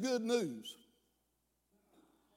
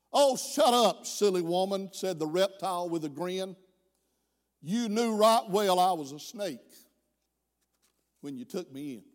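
measured storyteller reading a poem; poem recitation. Acted.

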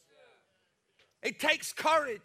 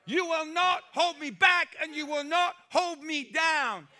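stare down disappointment and refuse it; defiant declaration; 3 semitones higher than usual. Pretend. The pastor voices believers defying their disappointment, defiant shouting. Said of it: "and say".

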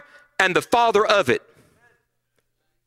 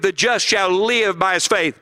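the just shall live, read slowly and evenly; slow scripture reading. Shown as a demonstration. Preacher reading the verse aloud to the youth, slow and measured. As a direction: recite it deliberately. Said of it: "Four times in your Bible we read".

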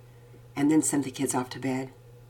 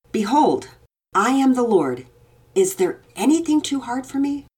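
louder, solemn proclaiming voice; proclaiming God; 8 semitones higher, 5 dB louder than usual. A narrator's reading. Father voicing God's words to his daughter with solemn weight. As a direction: declare it as God speaking.

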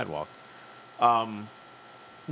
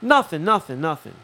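hasty denial; 3 semitones higher, 6 dB louder than usual. Retold or imitated. Acted backing down when challenged.

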